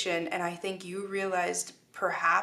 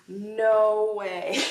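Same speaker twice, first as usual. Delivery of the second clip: surprised; 5 dB louder than usual. Real, not acted. Card reveal.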